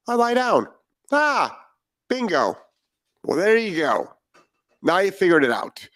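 lightly voiced dog, pitch leaping up on bingo; a dog clicking onto the answer, mock eureka; dog's inner voice. Trainer voicing the dog solving its crate problem, playful. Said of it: "And you know what dogs do?".

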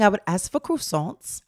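croissants said slowly as kruss-onts; mock posh croissants order; fake British croissants. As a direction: pronounce croissants French-style, as kruss-onts. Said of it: "trying to speak like y'all".

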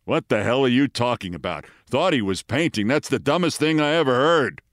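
imitating a resentful, sneering old actor; lightly voiced scornful retort; mock-indignant comeback. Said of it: "into a resentful sneer".

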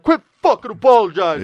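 high, loud exasperated mock yell; mock pissed snap. A host imitating Jane, annoyed at Andy, in a high loud snap. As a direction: snap it like she's fed up. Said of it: "She was like".

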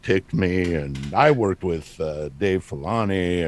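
mock boast, big start then tossed away; casual name-drop. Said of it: "I'll drop a name like that".

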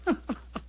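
a short breathy private chuckle; quiet chuckle. Acted. Holmes chuckling to himself after the clergyman leaves, quiet chuckle. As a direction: chuckle to yourself at a private joke. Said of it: "what are you laughing about?".

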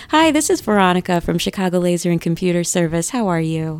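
lightly put-on phone sales greeting; smooth, practised call-center opener; telemarketing voice. Shown as a demonstration. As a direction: greet a stranger as a scripted telemarketer. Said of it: "that's my telemarketing voice".

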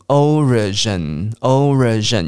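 slow "origin" closing on a held N; nasal ending. Shown as a demonstration. Teacher models for repeat-after-me, slow nasal-ended "origin". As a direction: stretch "origin" and let the final N hum. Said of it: "尾巴有一个鼻音的".

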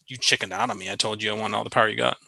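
hushed, hurried quote of the rude line; muted mock quote. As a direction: mumble it past as the way not to talk. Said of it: "you don't say".

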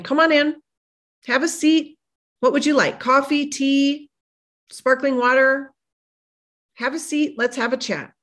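lightly acted, invite them in for a chat; inviting host. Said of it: "invite fear in".

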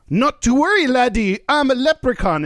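high, lilting Irish leprechaun; Irish accent. Acted. Joke teller voicing a leprechaun reassuring a man, high mock Irish accent. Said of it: "an Irish voice".

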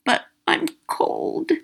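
put-on slow, breathy child's whisper; a cold little girl whispering. A narrator's reading. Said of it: "she whispered".

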